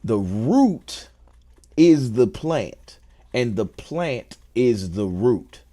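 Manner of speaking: slow, weighted wordplay; slow, emphatic wordplay; deliberate emphasis. Shown as a demonstration. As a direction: lean on each word, slow. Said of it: "And what I mean is".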